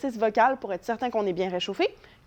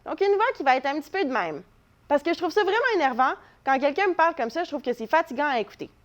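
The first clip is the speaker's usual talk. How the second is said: higher, nasal, grating character; annoying nasal voice; 4 semitones higher than usual. Shown as a demonstration. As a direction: pitch it up into the nose to irritate. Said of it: "qui est plus nasillarde".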